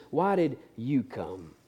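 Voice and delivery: slow and soft; tender question. Acted. Jesus asking Judas up close, slow and soft. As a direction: ask him gently, face to face.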